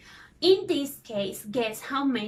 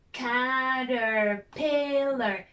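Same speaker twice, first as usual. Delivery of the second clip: slowed syllables; much slower than usual. Shown as a demonstration. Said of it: "Let's see".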